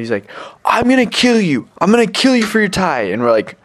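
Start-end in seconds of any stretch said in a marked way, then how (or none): 0.6-3.0 high-pitched mock menace; imitated drunk threat. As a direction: mimic a drugged-up man making threats. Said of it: "drunk and drugged up".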